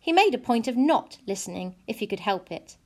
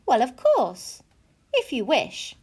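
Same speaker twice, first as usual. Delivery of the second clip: mother conceding with reservations, pitched up; lightly voiced mother; 4 semitones higher than usual. Mother answering her daughter about china rabbits, lightly indulgent.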